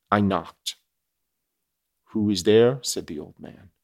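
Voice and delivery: measured audiobook reading with weight on key phrases; story narration. A narrator's reading. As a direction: read it out as a classic novel, deliberately. Reads the novel aloud.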